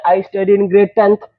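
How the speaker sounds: teacher shows class-ten students their one-line answer, slowly; slow model sentence. Shown as a demonstration. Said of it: "teacher models short answer".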